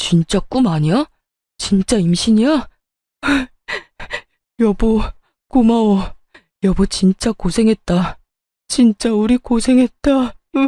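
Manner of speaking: words coming out through tears, crying. Reacting to news of a spouse's pregnancy, crying while talking. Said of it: "울긴 왜 울어?".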